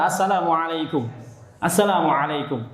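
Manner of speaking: "Assalamualaikum" articulated in full with a throaty ain; correct greeting. Shown as a demonstration. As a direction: model "Assalamualaikum" syllable by syllable, ain clear. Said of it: "Yang benar". ("Assalamualaikum" yang benar, ain jelas)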